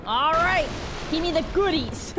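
hammed-up, failed British call; botched British accent. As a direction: attempt a British accent and miss it. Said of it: "that wasn't British".

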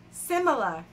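put-on punched-up Jersey accent on "similar"; mock Jersey-accented repeat; joking Jersey accent. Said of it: "doing the Jersey accent as a joke".

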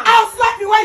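angry shout. Acted. Mother scolding crying daughter.

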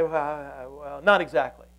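waffle your way out of admitting it; stalling, evasive mumbled excuse; hedging. Acted. Waffling under threat of drowning.

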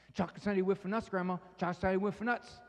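lightly voiced child begging in a sing-song; pleading grandchild. Grandchild begs grandma for a sundae, lightly voiced. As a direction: wheedle for a treat like a small child.

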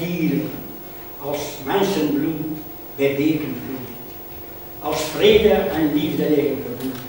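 solemn, measured declamation with weighted words; poem recitation. Acted. Veteran recites a poem about war's sorrow, declaiming. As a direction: recite it in drawn-out phrases with pauses.

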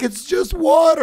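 high, loud whiny imitation; mimicking upset woman. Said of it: "she was like".

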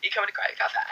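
put-on mumbled American accent. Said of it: "people actually talk like that".

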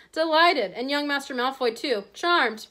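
lightly voiced oily welcome; fawning shopkeeper. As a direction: flatter father and son alike.

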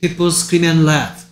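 very slow, word-by-word model sentence; slow reading model. Shown as a demonstration. Teacher feeding a sentence to a student to repeat, slow model reading. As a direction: read it out slowly for a learner to copy.

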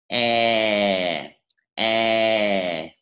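drawn-out "E" with wide lips, falling; first long E. Shown as a demonstration. Teacher reviews the first long sound, drawn-out wide E. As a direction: hold "E" long and let it sink. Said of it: "Chúng ta làm lại từ đầu".

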